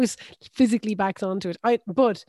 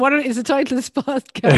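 mock outraged shout; 5 semitones higher, 6 dB louder than usual. Real, not acted.

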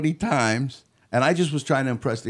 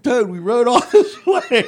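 much higher, louder, laughing friend's protest; exasperated friend; 12 semitones higher, 8 dB louder, slower than usual. Retold or imitated. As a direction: whine it like a fed-up buddy who made the whole trip. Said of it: "my friend's like".

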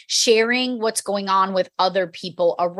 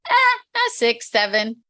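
reluctant answer; 2 semitones higher, slower than usual. Retold or imitated. A shrugging worker answering the scale question, hesitant and slow. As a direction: drag it out like you're unsure of your number.

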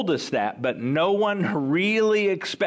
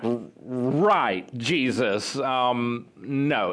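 drawn-out, low, hesitant pushback; doubtful, halting over the refusal; skeptical reply; 3 semitones lower, much slower than usual. Acted. Disciples answer Jesus's reassurance, skeptical and hesitant.

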